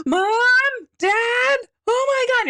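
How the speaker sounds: high frantic shout for mom and dad; lost kid panic. Pretend. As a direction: call out like a lost child in the mall. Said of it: "you're freaking out".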